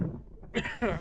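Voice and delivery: dry cough from windblown sand. Real, not acted. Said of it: "Sand in my throat".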